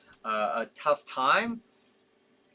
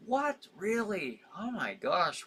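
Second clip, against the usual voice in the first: surprised; 7 semitones higher, slower than usual. Real, not acted. Startled by a chat comment.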